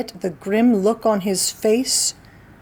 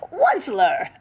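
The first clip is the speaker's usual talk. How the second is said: croaking cry; 6 semitones higher than usual. Acted. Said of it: "he cried with a cruffulous croak".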